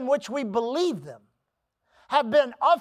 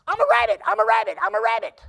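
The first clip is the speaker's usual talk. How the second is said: louder, delighted little bunny cry; excited bunny; 5 dB louder, faster than usual. Retold or imitated. Little bunny, thrilled at learning what he is, calls out louder. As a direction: shout it out like a bunny who just found out. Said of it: "the little bunny says".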